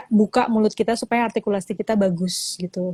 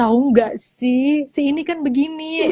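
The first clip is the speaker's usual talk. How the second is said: slow, rising excited gossip; enthusiastic gossip; 5 semitones higher, slower than usual. Shown as a demonstration. Demo of chatting to friends, excited and rising. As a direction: share juicy news with a friend. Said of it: "ada intonasinya gitu".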